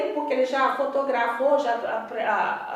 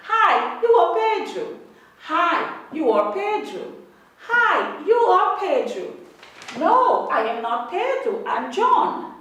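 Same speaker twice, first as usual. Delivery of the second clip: slow, louder classroom model reading for students to follow; model reading aloud; 3 dB louder, much slower than usual. Shown as a demonstration. Teacher reading a line aloud for students to repeat: slow, loud and clear. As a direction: read it out clearly for the class to echo. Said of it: "lendo comigo sempre".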